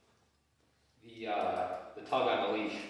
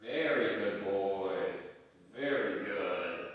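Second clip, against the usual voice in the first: slow praise; 4 semitones lower, much slower than usual. Real, not acted. Praising dog.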